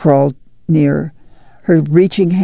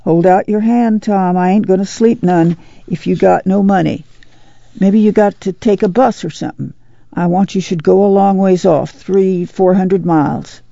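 lightly voiced pleading mother, slightly raised pitch; insistent mother; 3 semitones higher than usual. Mother urging her son to take money, mildly insistent. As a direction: press him gently, as his mother.

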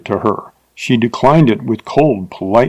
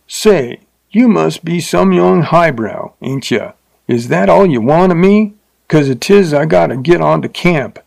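higher, coarse frontier man voice, lightly voiced; coarse rider; 5 semitones higher than usual. A narrator's reading. Rider needles the teacher he takes for highbrow, coarse voice. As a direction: play him as a rude, hungry drifter.

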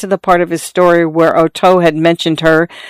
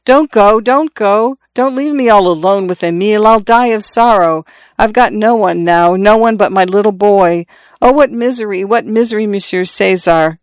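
pleading; 3 semitones higher than usual. Acted. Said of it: "she cried".

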